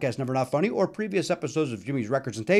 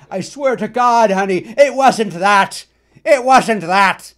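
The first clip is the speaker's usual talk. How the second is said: mock pleading; 4 semitones higher, 9 dB louder, slower than usual. Pleading with wife, retold.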